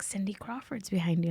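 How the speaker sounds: secretive whisper, no voice; whispered tip-off. Retold or imitated. Guest voices best friend spotting a celebrity, whispered. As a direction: whisper it so the celebrity can't hear.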